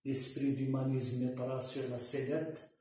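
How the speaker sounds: formal poem reading with pauses between lines; poem recitation. Real, not acted. Author presents his commentary on the youth in verse, poem recitation. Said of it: "l'exposer en vers".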